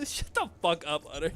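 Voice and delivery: laughing it off; giggling through the words. Real, not acted. Laughing at friend's teasing.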